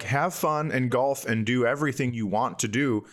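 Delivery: usual speaking voice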